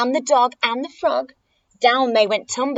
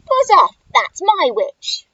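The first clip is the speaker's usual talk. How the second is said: growling monster; 7 semitones higher, 6 dB louder than usual. Acted. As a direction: yowl it like a horrible beast. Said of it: "was a yowl and a growl".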